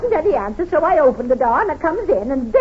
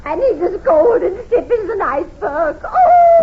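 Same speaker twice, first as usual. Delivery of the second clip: hysterical; 4 semitones higher, 5 dB louder than usual. Acted. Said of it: "Oh, stop it, Missus Main. Try and get a hold of yourself".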